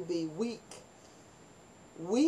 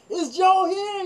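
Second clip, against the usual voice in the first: high, loud mocking echo of the question; mock soldier echo; 11 semitones higher, 8 dB louder, slower than usual. Barracks guard echoing the girls' question, high and loud. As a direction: squeak it back like a puzzled guard.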